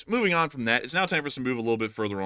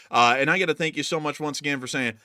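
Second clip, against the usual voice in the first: put-on Alabama accent. Host thanking a donor in a put-on Alabama accent. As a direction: lay the Alabama accent on thick. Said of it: "Had to let our true Alabama voice shine through".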